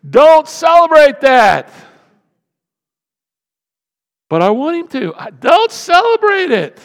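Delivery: high, loud, emphatic preacher's cry; shouted rebuke. Real, not acted. Preacher overruling a complaining spouse, shouted.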